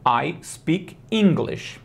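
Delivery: I speak English said slowly and clearly; slow model sentence. Shown as a demonstration. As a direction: spell out I speak English for a learner. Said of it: "E aí ela vai falar".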